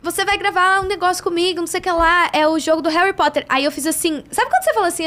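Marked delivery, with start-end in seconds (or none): 0.0-3.5 higher-pitched retold call over party noise; imitated talk over music. Dubber telling her news at a noisy party, raised voice over music. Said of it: "música alta".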